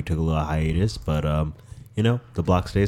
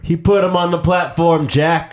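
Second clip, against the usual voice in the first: excited; 10 semitones higher, 5 dB louder than usual. Real, not acted. Excited repeat of the play.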